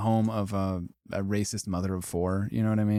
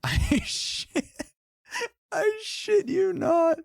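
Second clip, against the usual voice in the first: way higher, squeaky and laughing, slowed down; squealing laugh; much slower than usual. Real, not acted. Streamer reacting to a phrase on the list, laughing high squeal. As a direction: crack up so hard the voice squeaks up.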